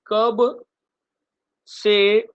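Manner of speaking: "कब से" called out loud and high, word by word; mnemonic called out. Shown as a demonstration. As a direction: announce "कब से" loudly like the start of a rhyme. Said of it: "trick में आप क्या बोलेंगे?". ("कब से" ज़ोर से, ऊँची आवाज़ में)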